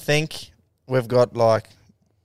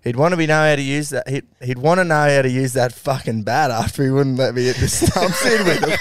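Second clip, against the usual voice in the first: mock yell; 3 semitones higher, 4 dB louder than usual. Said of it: "yelled out to the Slips boys".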